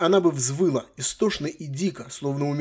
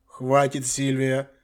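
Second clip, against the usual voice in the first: ordinary delivery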